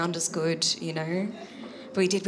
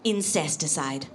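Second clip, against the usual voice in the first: put-on halting Italian-accented explanation; imitating Italian friend; 4 semitones higher, 3 dB louder than usual. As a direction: search for the word in an Italian accent. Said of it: "He's like".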